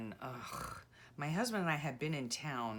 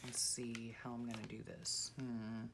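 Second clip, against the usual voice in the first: strained, breath held; holding breath; 4 semitones lower, 7 dB quieter than usual. Real, not acted. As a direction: talk while holding breath. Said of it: "holding my breath".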